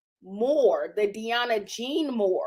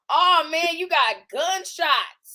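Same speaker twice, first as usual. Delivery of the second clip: higher, shocked friend exclaiming; mock shocked onlooker; 3 semitones higher than usual. Friend reacting to her bullet holes, mock shocked. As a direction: play a stunned visitor, hammed up.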